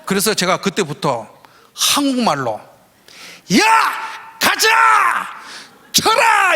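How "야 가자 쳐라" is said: high, loud coach's yell; shouting in Korean. Retold or imitated. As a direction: bark the batters on at full voice. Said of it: "이러니까".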